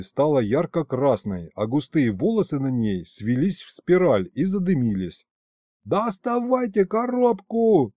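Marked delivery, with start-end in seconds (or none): 5.8-7.9 высокий медленный приказ криком; заори, спасая коробку. A narrator's reading. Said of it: "заорал я". (рассказчик кричит своим, чтобы спасли коробку, высоко и медленно)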